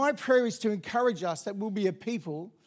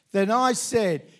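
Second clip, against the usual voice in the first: scripture reading aloud. Acted. Leading the church in reading scripture, measured. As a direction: read it together to the congregation.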